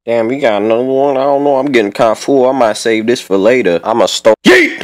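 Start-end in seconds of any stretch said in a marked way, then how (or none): 4.4-4.8 high screamed yeet; silly mismatched redub. Acted. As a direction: shriek it sky high. Throwing banana peel.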